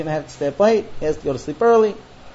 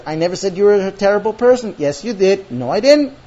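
louder, insistent back-and-forth denial; bickering; 2 semitones higher, 6 dB louder than usual. Acted. Husband and wife disputing who said what, bickering. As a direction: trade contradictions firmly.

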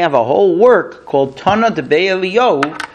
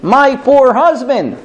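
lamenting widow; 8 semitones higher, 3 dB louder, slower than usual. Retold or imitated.

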